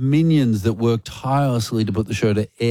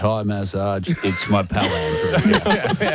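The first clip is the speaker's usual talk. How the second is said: imitating radio host. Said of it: "host going".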